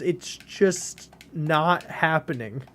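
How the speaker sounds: slow, drawn-out exasperation; fit of rage. Real, not acted. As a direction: drag the words out in real frustration. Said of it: "a fit of rage".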